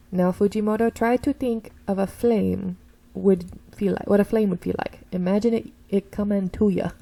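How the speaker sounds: professor with an odd put-on way of talking; weird-talking professor. Professor guiding Fujimoto toward a flame, weird talk. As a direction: coach a student in a slightly strange voice. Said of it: "this guy talks so weird".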